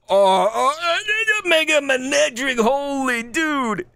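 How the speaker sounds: thrilled card pull; excited exclamation. Real, not acted. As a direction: blurt it out in delight. Excited reaction to pulled card.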